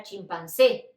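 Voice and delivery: "chimpancé" with closed final E and an s sound. Shown as a demonstration. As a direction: say "chimpancé" as cheem-pahn-SEH, Spanish style. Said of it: "Siempre vas a decir todo cerrado".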